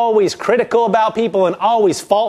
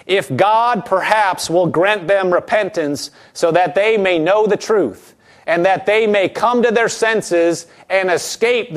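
scripture reading. Acted. Reads scripture aloud slowly.

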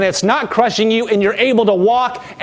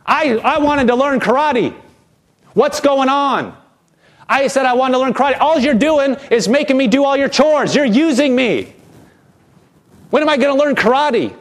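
higher-pitched mock indignation; retold mad outburst; 4 semitones higher than usual. Karate student confronting his teacher over chores, mock mad. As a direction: act out a mildly angry complaint. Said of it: "He gets mad and says".

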